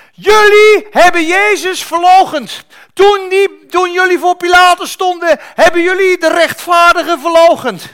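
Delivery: thundering, high-pitched preaching at full force; shouted accusation. Acted. Peter accuses the crowd at Pentecost, shouting at full force. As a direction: hurl the charge at the whole crowd.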